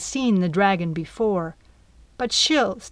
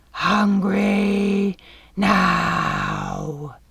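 very slow, drawn-out monstrous demand; insistent dragon; much slower than usual. Acted. Dragon insisting to the captain, slow and monstrous. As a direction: insist like a starving beast. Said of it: "the beast insisted, its voice slicing".

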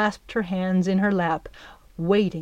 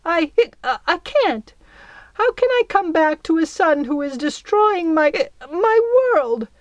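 high, louder wavering fairy voice; tiny fairy queen; 9 semitones higher, 5 dB louder than usual. Acted. Belle refuses her son, high and upset. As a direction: torn old fairy, voice pitched high.

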